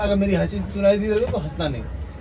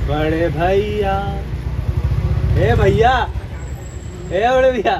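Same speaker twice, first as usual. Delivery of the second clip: yelling across the room; slower than usual. Real, not acted. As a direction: call him over from afar. Calling out to the brother.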